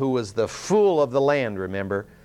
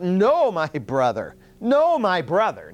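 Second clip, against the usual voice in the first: retold, raised pleading cry; emphatic cry; 5 semitones higher, slower than usual. Tamar refusing her half-brother, an emphatic raised cry. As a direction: cry it out, the second no slower and stretched. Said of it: "She emphatically cries out".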